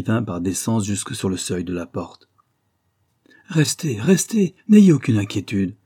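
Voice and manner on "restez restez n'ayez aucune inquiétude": high call growing louder. A narrator's reading. Husband calls from the doorway to searchers, loudly reassuring. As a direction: shout after them, pitched well up. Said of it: "nous cria-t-il".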